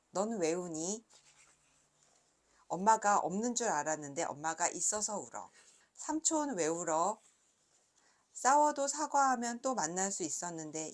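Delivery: measured, clearly voiced read-aloud with pauses; picture-book reading. A narrator's reading. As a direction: read each question and answer like a picture book. Reads her picture book aloud. (또박또박 그림책 낭독)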